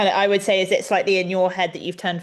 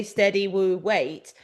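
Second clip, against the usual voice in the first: soothing horse talk; slower than usual. Shown as a demonstration. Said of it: "touch the rein and say".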